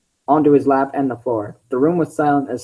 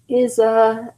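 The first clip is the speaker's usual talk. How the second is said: put-on high young fox voice; Tails voice; 8 semitones higher than usual. Tails asking the group, high-pitched. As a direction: chirp it up high. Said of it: "gotta do the voice".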